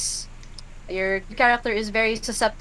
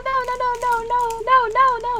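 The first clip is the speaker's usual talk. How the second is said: high, loud repeated nos; shouting no; 6 dB louder, much faster than usual. Acted. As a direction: wail no over and over. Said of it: "just shouting".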